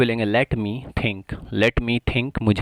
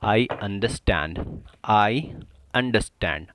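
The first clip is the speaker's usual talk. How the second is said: very slow, each word apart; slow drill; much slower than usual. Shown as a demonstration. Teacher showing learners the phrase, very slowly. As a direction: lay it out slowly for the class. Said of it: "तो इसे बोलेंगे".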